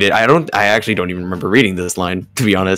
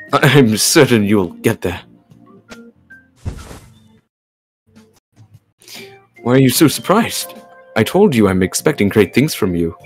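measured, composed character reading; careful, articulated story-reading delivery; game dialogue read-aloud. Acted. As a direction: voice the lines as a patient mentor. Reads game character's lines.

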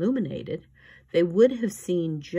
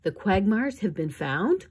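hopeful; 4 semitones higher, 4 dB louder than usual. Acted. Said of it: "Klaus asked hopefully".

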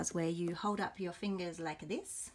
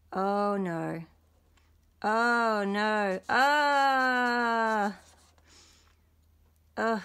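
louder mock-sick moans ending in a long groan; queasy groan; 3 semitones higher, 6 dB louder, much slower than usual.

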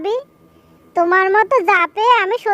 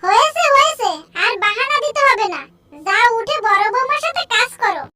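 put-on higher, scolding old mother-in-law voice; 3 semitones higher than usual. Mother-in-law scolding the sleeping daughter-in-law, old scolding voice.

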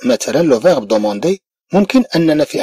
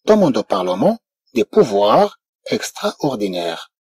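very slow, softer French; very slow model phrase; 4 semitones lower, 4 dB quieter, much slower than usual. Shown as a demonstration. French teacher reading a news phrase, slowly. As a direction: stretch every word for learners. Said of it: "إذا لو غوفرنمون بريطانيك".

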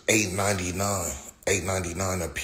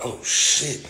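high, slow drawn-out awe; mock wide-eyed surprise at a big dog; awed at big dog; 6 semitones higher, much slower than usual. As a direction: gawk at the huge dog slowly. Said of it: "you be like".

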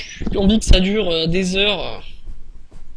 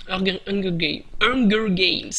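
playful French-tinged English accent; slower than usual. Shown as a demonstration. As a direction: show off your supposedly fabulous English accent. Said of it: "Avec mon accent anglais fabuleux".

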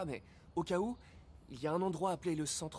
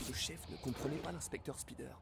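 narrator voice; 6 dB quieter than usual. Acted. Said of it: "vous faites une voix de narrateur".

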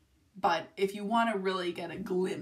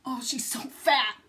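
doting coo; 5 semitones higher, 5 dB louder, slower than usual. Real, not acted. Cooing at the puppy.

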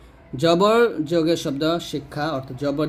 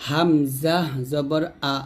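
read-along drill. Shown as a demonstration. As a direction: draw out each letter name, then land the syllable. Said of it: "আমার সাথে আপনারা পড়বেন".

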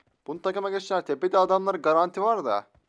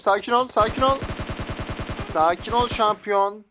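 higher, raised-voice appeal; mock calming call; 4 semitones higher, slower than usual. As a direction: call out to settle down a charging rival. Calls to attacker to calm down. (yüksek sesle sakinleştirmeye çalışır gibi)

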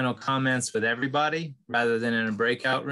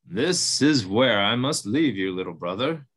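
buffalo voice; 2 semitones lower than usual. Acted. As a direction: greet him like a gentle giant. Buffalo parts from mouse.

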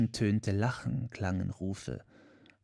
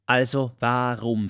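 louder call; 2 semitones higher, 8 dB louder than usual. A narrator's reading. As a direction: raise the voice on Also warum. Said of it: "rief Rehbei".

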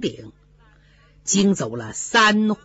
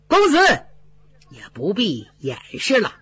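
sneering steward voice; mock him with cold politeness. 总管冷笑着逼问宝玉. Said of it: "冷笑了一声".

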